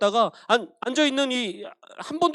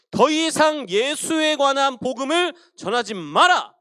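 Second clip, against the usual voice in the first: stern threat; 3 semitones higher, 6 dB louder, slower than usual. Acted. Priests threatening apostles.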